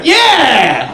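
high-pitched, hammed-up frantic yell; mock overzealous boss sounding the alarm; manager flipping out. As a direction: crow it in triumph, catching someone red-handed. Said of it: "he's, like, flipping out".

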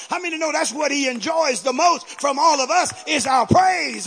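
building, loud preacher cadence; full-force preaching. Acted. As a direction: drive the praise home to the congregation.

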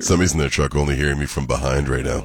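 hoarse sick voice. Real, not acted. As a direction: talk through a head cold. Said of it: "worse sick voice today".

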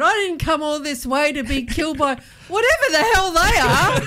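Bill Paxton impression. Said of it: "when I said".

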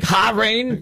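Bahrain with an exaggerated guttural kh; mock-authentic Bahrain. Host imitates the reporter trying to be authentic, throaty Bahrain. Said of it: "he's trying to be authentic".

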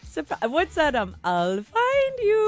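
high, slow, teary crazy-girl voice, a mock whimper; playful act of a clingy stalker sobbing; Isla Fisher impression. Co-host impersonating Wedding Crashers character to host, mock tearful. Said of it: "I'll be her".

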